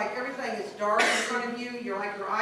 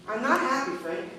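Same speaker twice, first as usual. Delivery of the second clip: whiny wife. Acted. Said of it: "let's see what some of that might look like".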